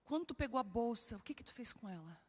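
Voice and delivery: quiet exasperated question to husband; barely restrained patience. Retold or imitated. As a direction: hold the irritation in. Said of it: "Eu falei".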